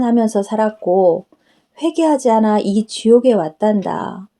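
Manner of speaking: a hint of a tender Jesus explaining to his daughter; Jesus speaking. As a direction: answer her kindly as the Lord. Jesus explaining sin of lips.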